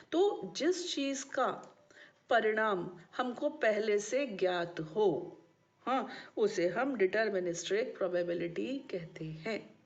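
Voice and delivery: deliberate, spaced-out definition; measured pace for students taking notes; slow dictation. Real, not acted. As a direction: dictate slowly in short phrases.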